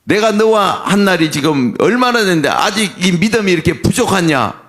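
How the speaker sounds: mild acted scolding, pitched a touch up; understated stern reproach; rebuking. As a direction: reprove a follower for lacking faith. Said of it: "하면서 오히려 꾸짖으셨어요".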